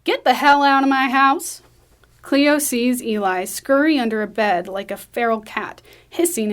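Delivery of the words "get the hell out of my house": loud, higher-pitched angry yell. Acted. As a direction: yell intruders out from another room. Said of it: "Wanda yells from her back room".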